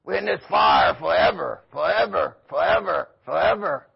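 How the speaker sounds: lightly voiced damned souls moaning; mock demons wailing. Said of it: "the demons shouting".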